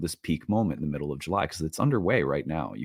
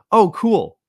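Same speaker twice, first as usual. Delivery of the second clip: high, loud mock-excited "cool"; 9 dB louder than usual. Husband retelling his reaction to his wife, hammed-up excitement. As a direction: play up your own wide-eyed delight.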